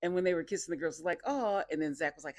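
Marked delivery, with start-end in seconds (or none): 1.2-1.6 high cooing aw; a girly, drawn-out aw; mock aw. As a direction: coo like the girls did. Girls cooing at a kiss.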